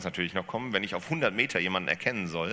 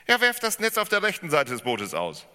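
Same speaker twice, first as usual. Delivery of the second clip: rufen; 9 semitones higher, 10 dB louder than usual. Acted. Jesus calls instruction.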